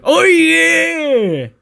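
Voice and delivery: very high, loud squeal of delight; ecstatic oh yeah. Retold or imitated. Otis after a sip from the cup, ecstatic squeal. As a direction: let it fly up like a party cheer. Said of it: "And go".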